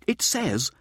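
high, slow, showboating lecturer; Mirza's voice. A narrator's reading. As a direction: relish every word like a showman. Narrator voicing Mirza.

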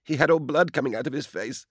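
high, frightened stammer; a shaken maid stumbling over the words. Acted. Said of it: "she stammered".

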